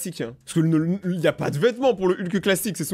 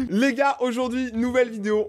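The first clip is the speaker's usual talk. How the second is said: parody youtuber intro; 6 semitones higher than usual. Pretend.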